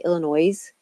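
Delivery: "Illinois" with the final s sounded, like "noise"; mispronunciation. Retold or imitated. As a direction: say "Illinois" ending in a voiced z. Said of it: "correct people who say Illinois".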